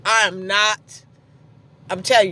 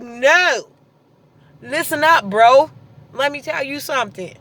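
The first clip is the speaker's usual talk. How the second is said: firm telling-off; 3 semitones higher, 4 dB louder, slower than usual. Retold or imitated. Retelling telling off ex.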